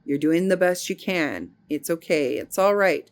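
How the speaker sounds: gentle inner reassurance; self-soothing. Retold or imitated. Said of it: "So I said".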